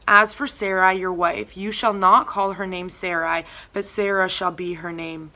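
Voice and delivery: measured, solemn Bible reading; scripture reading. Acted. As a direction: read the passage steadily and reverently. Reads scripture aloud.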